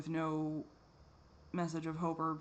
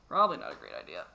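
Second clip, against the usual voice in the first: much lower and louder, a put-on deep voice; mock deep voice; 12 semitones lower, 8 dB louder, faster than usual. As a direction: drop into a deep joking voice. Repeats her answer mockingly.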